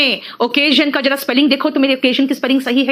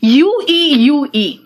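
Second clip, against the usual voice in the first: mock exasperation; 4 dB louder, much slower than usual. Shown as a demonstration. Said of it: "नौटंकी ज्यादा रहती है".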